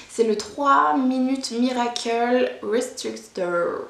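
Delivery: slow, hammed-up English accent on Miracle Restrictor; jokey English accent on a brand name; mock English accent. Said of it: "j'ai un super accent anglais aussi".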